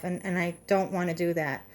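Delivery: breathless, talking fast; winded from nonstop talking; out of breath. Real, not acted. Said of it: "I'm out of breath".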